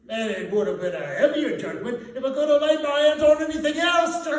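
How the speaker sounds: high, loud words through a laugh; gloating charwoman. Acted. Charwoman boasting to the thieves, high laughing voice. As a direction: cackle it out, gloating.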